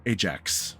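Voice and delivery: grave, halting reproach with weighty pauses; lightly voiced stern elder; disappointed patriarch. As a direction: let each item land separately, like a wronged father. GM speaks as Ulysses.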